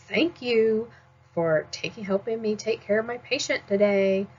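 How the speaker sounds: a sarcastic, put-upon "Thank you"; negative thank you. Shown as a demonstration. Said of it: "which one sounds nicer".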